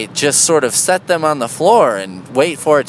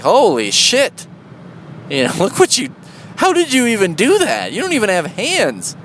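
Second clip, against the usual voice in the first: mock astonished, higher and rising; amazed outburst; 6 semitones higher than usual. Picturing a bird that built an airplane, mock amazed. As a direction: gush in disbelief at a bird's handiwork. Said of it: "I'd be like".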